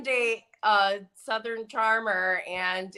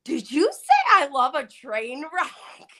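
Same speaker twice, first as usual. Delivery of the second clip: incredulous question; 4 semitones higher than usual. Retold or imitated. Host quoted asking a guest in disbelief, incredulous. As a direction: ask it like you can't believe your ears. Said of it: "even Andy was like".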